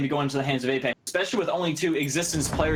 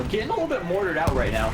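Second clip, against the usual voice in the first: voice crack. Real, not acted. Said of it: "Me with the voice crack right there".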